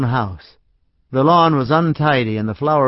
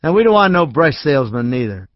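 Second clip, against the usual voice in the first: put-on drunk man; 3 semitones higher, 4 dB louder than usual. Drunk Art adds.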